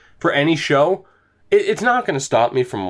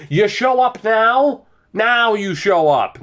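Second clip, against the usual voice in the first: sarcastic outrage; 5 semitones higher, slower than usual. Real, not acted. Sarcastic rant at late scoring.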